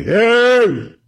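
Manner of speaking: high-pitched demonstrated shout; screaming. Shown as a demonstration. Someone screaming at you in an argument, high mock scream. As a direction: yell it as a sharp demo of someone screaming. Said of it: "if someone's screaming".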